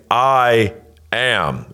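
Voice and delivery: attention-getting "I am"; emphatic I am. Shown as a demonstration. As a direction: split "I ... am" with a weighty pause. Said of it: "in a very attention-getting way".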